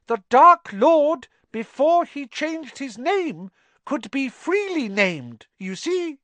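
high, eager little elf explaining the obvious; wide-eyed and earnest; house elf voice. Acted. House elf explaining his clue to Harry: high and eager.

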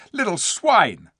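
high, loud, drawn-out contempt; spiteful insult. A narrator's reading. Eustace cursing the dwarfs, contemptuous. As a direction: fling it out bitterly.

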